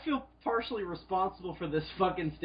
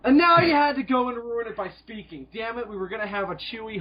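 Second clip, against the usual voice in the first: mock outrage; 7 semitones higher, 4 dB louder than usual.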